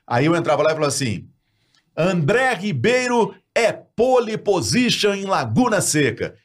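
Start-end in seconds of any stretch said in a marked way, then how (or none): 1.9-6.3 punchy radio headline, slow and lifted; headline read. Shown as a demonstration. Radio anchor opening the morning show with a headline, announcing. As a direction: sell it like the top story of the morning news. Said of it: "Isso é uma manchete".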